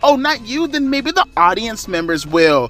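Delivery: high, over-enunciated wrestling heel voice; girl heel voice. Retold or imitated. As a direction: enunciate every word like a smug heel. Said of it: "I'm gonna do the stereotypical girl heel voice".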